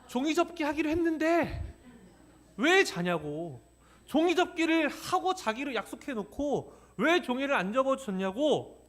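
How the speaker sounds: put-on high, whiny child's voice, stretching out 왜 자냐고 slowly; crying child. Pastor imitates his crying son demanding origami, high and whiny. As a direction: mimic a sobbing kid who was promised origami. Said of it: "제 옆에서 울면서".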